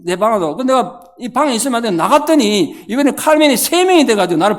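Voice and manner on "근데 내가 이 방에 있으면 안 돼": normal talking voice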